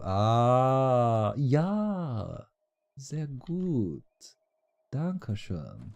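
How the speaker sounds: mock German. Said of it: "Trying to be all international here".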